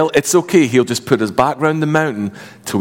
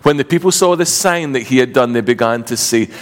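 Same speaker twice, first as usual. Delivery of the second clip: measured Bible reading aloud; scripture reading. Acted. Pastor reading scripture aloud to church, measured. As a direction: read the Gospel to the congregation.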